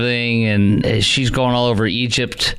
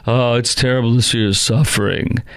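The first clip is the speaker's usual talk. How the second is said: imitating husband. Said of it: "he's like".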